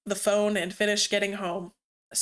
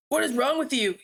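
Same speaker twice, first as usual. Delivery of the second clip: yelling; 3 semitones higher than usual. Acted. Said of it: "yelled Knuckles at Rouge".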